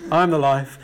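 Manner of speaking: mock-insistent Jesus. Repeats Jesus's quip for effect.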